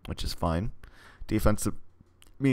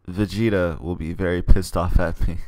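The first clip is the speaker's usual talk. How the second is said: laughing; 5 dB louder than usual. Real, not acted. Joke about power level.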